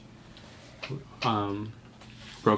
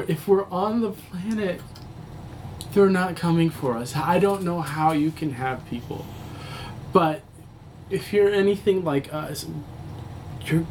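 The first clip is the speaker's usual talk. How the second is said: desperate shout; 7 semitones higher than usual. Acted. Survivor to the medic about their people, frantic shouting. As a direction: yell it like all hope is gone.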